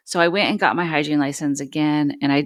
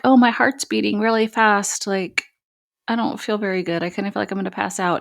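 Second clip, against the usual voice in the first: retold panic; 5 semitones higher than usual. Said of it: "I was just like".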